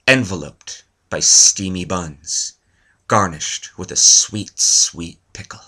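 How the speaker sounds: slow, sultry mock erotic reading; mock romance reading. Shown as a demonstration. Reading a mock erotic excerpt to viewers, slow and sultry. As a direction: read it like a steamy romance novel, slowly. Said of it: "this excerpt that I wanted to read to you".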